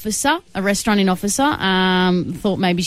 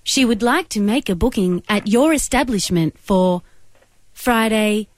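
automated operator voice. Pretend. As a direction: read it like a phone menu. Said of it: "use only my automated operator voice".

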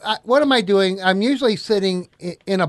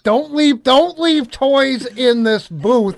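slow, loud, higher radio-host drawl; morning show host; 7 semitones higher, 6 dB louder, slower than usual. Acted. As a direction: stretch it out like a morning DJ. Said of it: "You sound like a certain morning show host".

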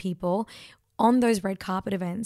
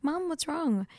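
concerned question; 7 semitones higher, 4 dB quieter, slower than usual. Retold or imitated. Retells worried question to crying mum.

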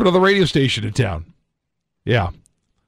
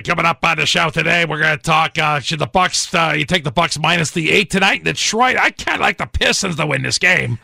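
Impression of a singer. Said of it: "Give me your best singer impression".

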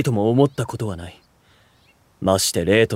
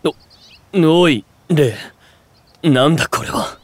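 sudden raised, higher exclamation; startled outburst; 6 semitones higher, 4 dB louder, slower than usual. Acted. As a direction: caught off guard by guests, blurting. Brother finds unexpected guests. (驚いて声を上げる)

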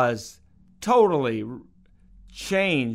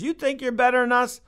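mock offended; 10 semitones higher, faster than usual. Mom challenging refused beer.

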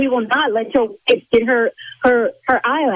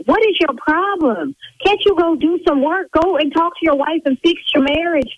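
exasperated scolding; 5 semitones higher than usual. Real, not acted. Owner scolds caller to go away.

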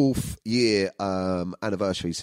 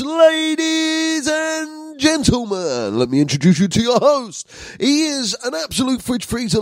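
loud, high show intro with stretched words; hyped-up announcer; 9 semitones higher, 5 dB louder, slower than usual. Acted. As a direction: belt out the host's introduction like a ring announcer.

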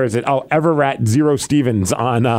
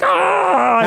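much higher excited "Ah!"; kid's yelp; 12 semitones higher than usual. Retold or imitated. Kid reacting as wrestler lands on him, yelping high. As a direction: squeal like a thrilled kid. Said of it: "And he's like".

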